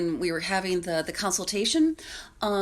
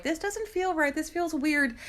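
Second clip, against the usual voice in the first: higher-pitched voicing of uneasy daters; lightly acted discomfort, pitched up; mock unease; 8 semitones higher than usual. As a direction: imitate two people feeling awkward.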